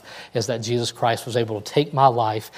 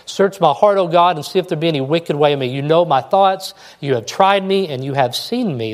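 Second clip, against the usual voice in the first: fervent prayer; 4 semitones higher, 3 dB louder than usual. Acted. Preacher prays psalm aloud fervently.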